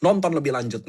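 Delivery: hook the viewer with a personal twist; lightly performed clickbait hook; content hook demo. Shown as a demonstration. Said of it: "Nah, itu hook".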